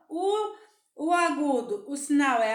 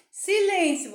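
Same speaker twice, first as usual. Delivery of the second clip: "Silêncio" louder and higher, peaking on "lên"; stressed middle syllable; 5 semitones higher, 5 dB louder than usual. Shown as a demonstration. Teacher picking out the syllable to colour, stress on "lên". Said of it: "você vai pintar o lém".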